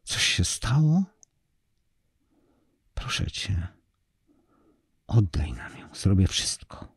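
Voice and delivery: breathless pleading whisper; mouthing a scream, barely voiced; silent scream. A narrator's reading. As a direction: plead almost without voice, desperate. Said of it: "Krzyczał bezgłośnie".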